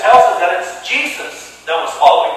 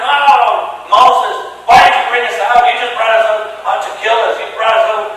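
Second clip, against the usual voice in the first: complaining people. Retold or imitated. Israelites complaining to Moses in the desert, mock whining. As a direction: whine at Moses, half-hearted. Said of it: "they're complaining, they're murmuring".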